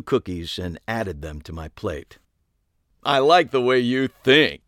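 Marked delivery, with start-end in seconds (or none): 3.0-4.6 put-on girlish voice. A narrator's reading. Ariana voiced.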